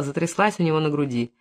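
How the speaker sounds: ordinary delivery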